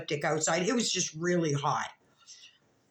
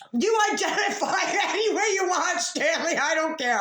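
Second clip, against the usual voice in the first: laughing; 10 semitones higher, 4 dB louder than usual. Real, not acted. Laughing while addressing dead fish.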